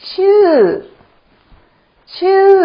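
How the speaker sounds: ชื่อ high and loud, in the falling tone. Shown as a demonstration. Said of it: "this sound is a falling tone".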